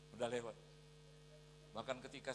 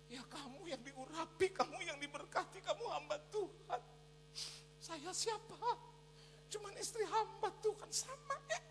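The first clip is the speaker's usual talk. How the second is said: very high, whiny mock crying; imitated tearful wife. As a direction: wail the complaint as a weeping wife. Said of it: "Dia udah nangis".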